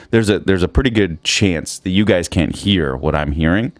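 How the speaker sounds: sticky mouth noises; talking with a dry mouth. Real, not acted. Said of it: "Sorry for the mouth noises".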